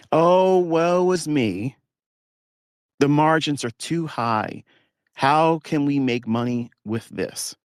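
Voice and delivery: high, slow, drawn-out mock whine; mock whining. Mocking complaining traders, hammed-up high slow whine. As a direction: whine like a self-pitying trader, stretching each word. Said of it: "They're complaining".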